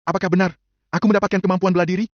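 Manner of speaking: high-pitched questioning, rising at the end; wondering to oneself. A narrator's reading. Levin questions himself about his new ability, wondering. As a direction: ask yourself in disbelief. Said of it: "gumamnya bertanya pada dirinya sendiri".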